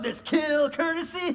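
scornful outburst. Acted. Puck scorns the sleeping Lysander.

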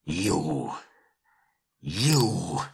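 drawn-out angry splutter; outraged cry. A narrator's reading. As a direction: splutter the word in disbelief. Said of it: "cried Thorin".

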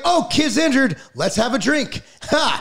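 high, sarcastic party invitation; mock cheerful. Mocking coaches over an injured kid, falsely cheerful. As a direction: play the careless coach, sarcastically.

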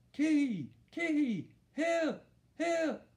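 high, loud muffled cries for help; mouth full. A narrator's reading. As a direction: call out with your lips stuck, high-pitched. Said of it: "sounded like he had something in his mouth".

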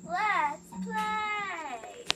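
very slow sing-song let's play; Playtime voice. Retold or imitated. Sister shows how Playtime says let's play. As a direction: drag it out like a creepy game child. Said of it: "we could do playtime".

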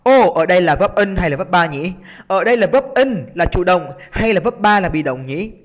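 exclaimed "oh", then questioning aloud; self-questioning. Acted. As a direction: act out a student puzzling over the question. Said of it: "chúng ta sẽ đặt câu hỏi".

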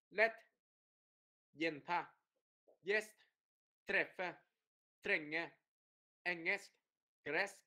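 short "e" in each word, cut off quickly; crisp single words with brief vowels; đọc dứt khoát. Shown as a demonstration. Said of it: "dứt khoát, lätt". (đọc lẹ, âm "e" ngắn gọn)

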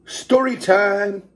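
voice from the shadows. Acted. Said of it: "says a voice from the shadows".

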